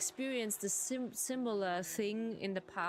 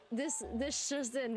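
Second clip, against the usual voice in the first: reporter voice; 2 semitones higher than usual. Pretend. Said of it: "Reporter voice".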